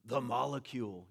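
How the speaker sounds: mocking molecules. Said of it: "that molecules start mocking".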